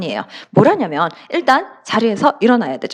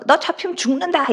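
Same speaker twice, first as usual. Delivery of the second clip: mock threat, pitched up; playful threat; 5 semitones higher than usual. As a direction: jokingly warn a friend, voice lifted. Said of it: "우리 장난으로". (장난스러운 협박조)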